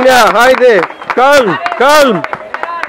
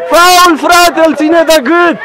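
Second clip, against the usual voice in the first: raised-voice protest; indignant calling out; 4 semitones higher, slower than usual. Real, not acted. Coach protests a neck hold as a foul, calling out.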